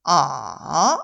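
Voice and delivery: 아 dipping low and rising; a drawn V-shaped 아; third tone demo. Shown as a demonstration. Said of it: "V자 느낌으로 따라서 하시면 돼요". (3성 시범)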